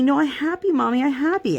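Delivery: put-on high toddler voice insisting through tears; imitating crying toddler. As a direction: mimic a little girl pretending she's fine. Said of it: "And she just looked at me".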